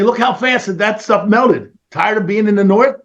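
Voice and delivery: high-pitched pretend promo spiel; mock video pitch. Suggesting a snow-melting video to Jordan, high-pitched mock promo. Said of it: "and say".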